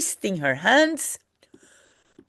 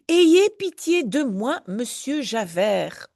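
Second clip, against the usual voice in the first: pleading; 3 semitones higher than usual. Acted. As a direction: beg for mercy. Begging plea from the novel.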